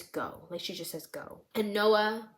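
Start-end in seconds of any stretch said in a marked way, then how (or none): 0.0-0.5 low, very soft single word; acted hushed whisper. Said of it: "All that Cassie whispers to Noah is". 1.1-1.4 barely voiced, very soft; acted hushed whisper. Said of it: "All that Cassie whispers to Noah is".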